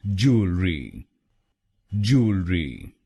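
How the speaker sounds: "ज्वेलरी" blended back into one smooth word; whole word again. Shown as a demonstration. Teacher putting "ज्वेलरी" back together, clear. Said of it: "तो बनेगा".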